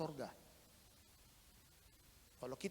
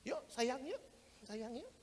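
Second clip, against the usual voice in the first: soft, coaxing lover's murmur; hushed flirty invitation; coaxing couple; 5 semitones higher, 7 dB quieter, slower than usual. Retold or imitated. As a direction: lure a partner along gently. Sinners coaxing each other.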